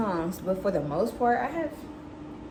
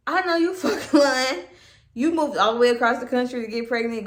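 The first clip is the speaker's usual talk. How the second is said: mom's voice, higher, laughing as she scoffs; laughing disbelief; 5 semitones higher, 5 dB louder than usual. Retold or imitated. Mom on the phone scoffing at her daughter, laughing disbelief. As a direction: laugh it off like she can't believe it.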